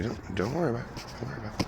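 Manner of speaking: retold reassurance. Doctor telling his old babysitter not to worry, reassuring. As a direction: gently brush the worry away.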